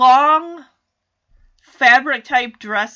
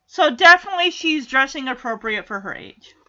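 sarcastic whisper; faster than usual. Real, not acted.

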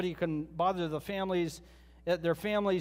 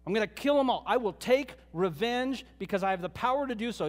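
mild retold anger; 3 semitones higher than usual. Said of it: "He was angry".

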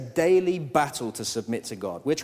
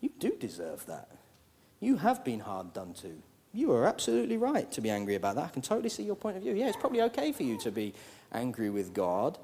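sly worldly voice; 2 semitones higher, faster than usual. Retold or imitated. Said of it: "worldly wisdom says".

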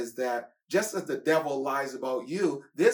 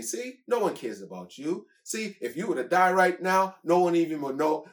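lightly voiced sneering devil; taunting devil; 4 semitones higher than usual. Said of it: "the devil's saying".

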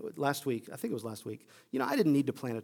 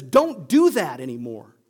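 Peter's rebuke; 4 dB louder than usual. Acted. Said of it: "he rebukes him".

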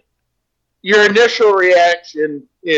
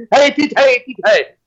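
mock Irish accent; 2 semitones higher than usual. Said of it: "You get to do your funny Irish accent".

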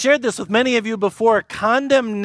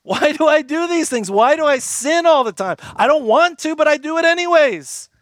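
higher, exasperated self-questioning; frustrated Paul; 6 semitones higher than usual. Retold or imitated. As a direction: plead with yourself in frustration. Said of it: "Paul's wrestling".

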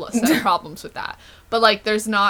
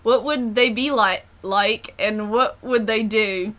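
reading aloud in an Australian accent. Shown as a demonstration. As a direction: read it out with an Australian twang. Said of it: "Australian accent for me just seems".

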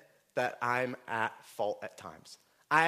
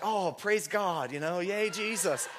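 higher, drawn-out "oh" of praise; wife's mock cheer; 5 semitones higher, slower than usual. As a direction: imitate a wife's delighted cheer. Wife cheers at his weeping news.

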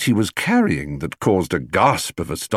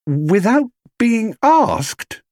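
very slow, higher amazed question; 3 dB louder, much slower than usual. A narrator's reading. Judy to Paddington, slow and amazed. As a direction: stretch each word in disbelief. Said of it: "repeated Judy slowly".

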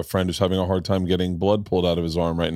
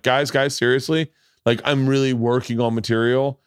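"really" stressed in a raised, insistent plea; pleading insistence; 3 semitones higher than usual. Retold or imitated. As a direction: plead with them, leaning on REALLY. Pleading again after being booed.

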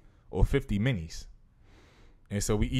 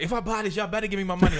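higher, laughing mock demand; pitched-up joking friend voice; voicing Liv; 8 semitones higher, 3 dB louder, faster than usual. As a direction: play the friend who wants her money back.

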